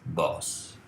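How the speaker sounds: slow, careful Italian phrase; slow example. Shown as a demonstration. Teacher modelling the formal Italian sentence slowly. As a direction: say "il mio boss" slowly and clearly. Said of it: "Notice the difference".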